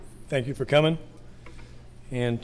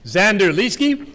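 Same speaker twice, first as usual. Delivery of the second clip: yelling across the room; slower than usual. Real, not acted. Calling names across the room.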